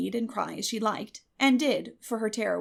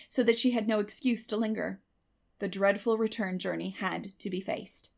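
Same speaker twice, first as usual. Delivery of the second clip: ordinary delivery, nothing marked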